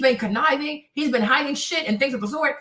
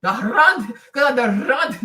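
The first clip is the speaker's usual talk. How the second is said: the Rand with a hard Afrikaans R, a bit lower; Afrikaans accent; 3 semitones lower, 4 dB louder, slower than usual. Shown as a demonstration. Showing the hard Afrikaans R to co-hosts, lower Afrikaans accent. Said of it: "their R's are really hard".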